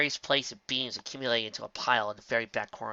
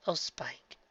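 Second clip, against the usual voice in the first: croaked; 4 semitones higher, 6 dB quieter than usual. A narrator's reading. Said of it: "she croaked".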